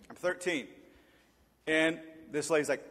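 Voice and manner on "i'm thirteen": quiet aside. Shown as a demonstration.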